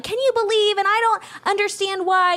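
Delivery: high, indignant venting; upset venting. Retold or imitated. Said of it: "I'm like".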